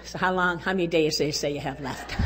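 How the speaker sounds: lightly voiced gloomy hospital visitor; a hint of morbid bedside talk; tactless visitor. Hospital visitor asking a patient, mock gloomy. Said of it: "that's not encouraging at all".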